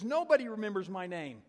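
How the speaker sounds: high, loud emphatic statement; overwhelmed amazement. Retold or imitated. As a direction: insist on it as a moved woman. Retold lady overwhelmed at being noticed.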